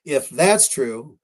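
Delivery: slow, emphatic conditional with weight on "If"; stress on "If". Real, not acted. Researcher hedging his claim about the imposter, stress on "If". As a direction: draw out the phrase, stressing "If". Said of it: "I'm stressing the word if".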